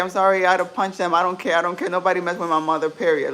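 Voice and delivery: loud, fast and defiant; nobody touches my mother, said hard; fired up. Real, not acted. Defending her mom, fired up.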